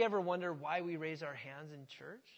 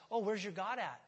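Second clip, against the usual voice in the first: mocking taunt; 3 semitones higher, 6 dB louder than usual. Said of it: "And they can taunt you".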